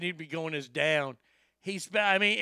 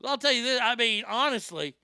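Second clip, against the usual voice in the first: excited praise; 5 semitones higher, 3 dB louder than usual. Real, not acted. Keeps raving about the anchor.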